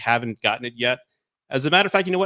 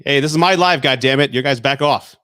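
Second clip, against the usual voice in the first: mock angry; 3 semitones higher, 9 dB louder than usual. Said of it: "Just kidding".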